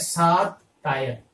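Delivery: सात टायर as two words, सात then टायर; सात टायर अलग-अलग बोलो; split into saat tyre. Shown as a demonstration. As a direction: say सात टायर, like seven tyres. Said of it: "सटायर word को क्या बना रहे हैं".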